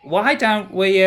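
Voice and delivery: high, stammering little creature voice; high-pitched, faltering sidekick; excitable hoofed creature. Acted. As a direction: pipe up high, tripping over the words. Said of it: "Sod kind of pops up with".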